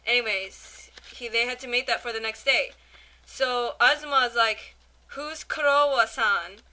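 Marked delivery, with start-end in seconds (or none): 5.1-6.6 croissant said Japanese-style, Kurowa-san; mock Japanese accent. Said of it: "it's like a really weird accent".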